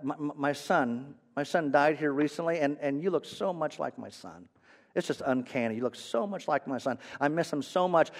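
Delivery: softly voiced, mildly tearful grief; halting, hushed imitation of a grieving mother; tearful old lady. Elderly lady confiding her loss to a stranger, mildly tearful. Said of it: "starting to cry a little bit".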